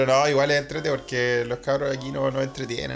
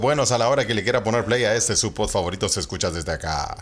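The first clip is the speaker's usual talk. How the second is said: podcast announcer intro; 2 semitones lower than usual. Acted. Host welcoming listeners from Central Europe, announcer style. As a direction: announce the show grandly, pausing between phrases. Opens the podcast over music.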